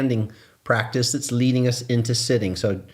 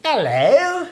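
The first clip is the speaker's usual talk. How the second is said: squeaky high hello; 6 dB louder than usual. Acted. Playful hello exchange.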